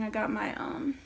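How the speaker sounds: after wisdom teeth. Real, not acted. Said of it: "excuse the way I'm talking".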